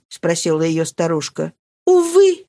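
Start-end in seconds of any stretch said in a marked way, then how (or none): 1.9-2.4 high, loud despairing sigh; exhausted. Acted. Marie returning to Marianne: exhausted despair. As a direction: sigh it out, worn out. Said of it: "в изнеможении".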